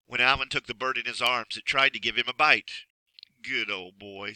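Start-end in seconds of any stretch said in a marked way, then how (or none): 3.4-4.3 sad. Acted. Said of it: "said Alan sadly".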